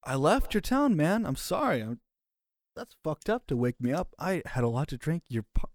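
put-on high, whiny drunk apology; groggy apology. Drunk player kicked awake by Duncan, whiny apology. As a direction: plead like a hungover drunk just kicked awake.

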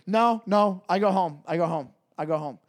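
a hint of a cabbie in broken English; lightly voiced cabbie repeating himself, fading; cabbie refusing. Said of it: "He goes".

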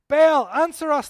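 loud, slow desperate cry to the god; pagans shouting. A narrator's reading. Prophets of Baal shouting to their god, loud and slow. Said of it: "they shouted".

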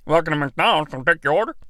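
flat service-counter greeting; McDonald's speaker asking for order; drive-thru worker. Acted.

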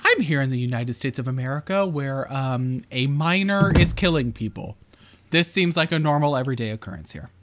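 lightly done TV reporter voice; newscaster voice. Pretend. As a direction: read it like a field reporter. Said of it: "This is like newscaster voice".

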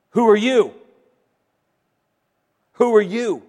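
loud, sharp indignant challenge; indignant demand. Retold or imitated. Priests confronting John, loud indignant challenge. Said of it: "Can you see the indignation?".

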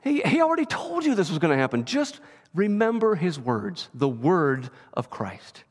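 hint of the angel's commanding voice; angel's firm reminder. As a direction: speak with calm authority. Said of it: "He says".

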